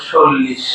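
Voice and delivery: "চল্লিশ" said as sollish; "চল্লিশ" opening on s, not ch; s replacing ch. Shown as a demonstration. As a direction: say "চল্লিশ" with a dental s at the start. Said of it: "চ কে দন্ত স উচ্চারণ করবো".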